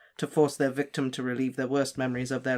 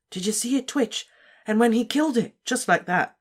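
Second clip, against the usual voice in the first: excited student; 9 semitones higher, 3 dB louder than usual. A narrator's reading. Students excited about the lesson.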